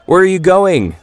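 put-on high, loud catcall from teenage boys; jeering shout. A narrator's reading. Teenage boys jeering at Mama in the lobby, loud high shout. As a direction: yell it across the lobby like a taunting teen. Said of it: "they shouted at Mama".

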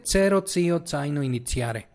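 Cero, tío, zaino, iniziare all with ts; Italian ts sound. Shown as a demonstration. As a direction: run through Cero to iniziare with ts for every z. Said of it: "la vas a pronunciar como T".

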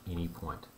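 "any" picked out firmly, "point" falling away; stress on ANY. Real, not acted. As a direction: press on "any" and let "point" drop. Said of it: "I do have to stress that word".

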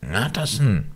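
high, anguished call from inside; pleading cry. A narrator's reading. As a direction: cry out for mercy, pitched high. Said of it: "rief eine Stimme von innen". (flehender Aufschrei)

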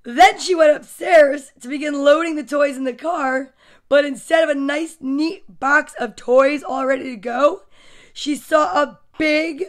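put-on lightly animated reading to children; story narration. A narrator's reading. Storyteller recounts mother and son sorting toys, animated narration. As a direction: read it out with punched key words. Reads picture book aloud.

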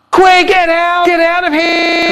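shrill panicked scream; shouting. Acted. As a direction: yell it in panic. Shouted very high loud.

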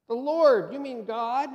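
high, loud disbelief; stunned man hearing God answer, astonished. Acted. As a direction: gasp out the question, amazed. Jack learns it is God.

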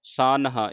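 ਸਾਨਹਾ as saan, then attached haa; weight the haa after n in ਸਾਨਹਾ; correct pronunciation. Shown as a demonstration. Teacher showing how haa attaches, correct pronunciation. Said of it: "ਸੰਬੰਧਕ ਲਾਉਣਾ ਹੈ".

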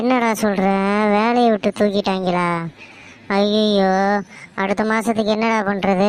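mother's mildly wailing disbelief; shocked dismay. Acted. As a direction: lament the son's lost job. Mother hears son lost job. (அதிர்ச்சியுடன் புலம்பல்)

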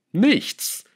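high-pitched, surprised denial; sudden high, surprised answer. A narrator's reading. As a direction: toss it out as if astonished to be asked. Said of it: "Melchior wirkte überrascht".

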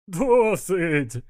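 high, drawn-out breathless plea; gasping with laughter. A narrator's reading. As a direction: plead as if winded from laughing. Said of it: "задихаючись, прохрипів він". (задихаючись від сміху)

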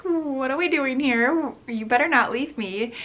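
lightly voiced worried little dog, pleading; voicing the scared dog. Owner voices her dog at the groomer, lightly pleading.

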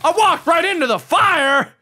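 high-pitched cry of dismay; dismayed yelling. Real, not acted. Player just walked right into the fire, dismayed yelling. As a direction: wail at your own blunder.

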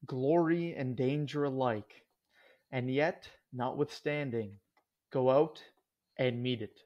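measured, solemn quote reading; an epigraph read aloud, deliberately paced. Acted. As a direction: read it out in deliberate phrases with pauses. Reads opening quote aloud.

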